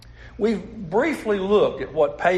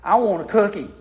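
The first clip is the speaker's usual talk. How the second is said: put-on child's whine; 3 semitones higher than usual. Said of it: "the little girl began to whine".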